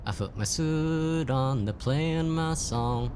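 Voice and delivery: drawn out, gleefully proud; slow triumphant. Real, not acted. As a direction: savour it like a victory. Triumphant as music starts.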